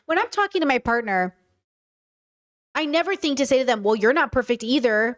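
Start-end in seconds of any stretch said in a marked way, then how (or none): 3.8-5.2 defensive retort. Shown as a demonstration. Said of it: "listen to that tonality".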